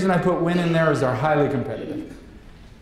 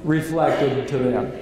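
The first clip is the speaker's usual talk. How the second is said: slow answer to own question; 4 semitones lower than usual. Shown as a demonstration.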